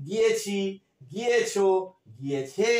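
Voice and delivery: গিয়েছি, গিয়েছো, গিয়েছে each set apart by pauses; spaced-out verb forms. Shown as a demonstration. Teacher showing the perfect-tense endings, গিয়েছি, গিয়েছো, গিয়েছে spaced apart. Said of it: "তাহলে কিরকম উচ্চারণগুলো হচ্ছে".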